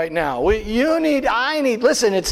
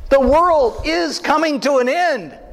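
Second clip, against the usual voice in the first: a touch of mock alarm, raised pitch; mock panicked Chicken Little; 4 semitones higher than usual. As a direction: play a panicky doomsayer lightly. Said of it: "Chicken Little going".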